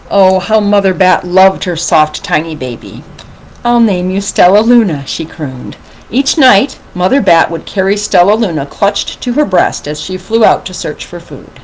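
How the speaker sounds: animated read-aloud, lifting with the drama; story reading to children. A narrator's reading. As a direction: read a picture book expressively to children. Begins the next storybook.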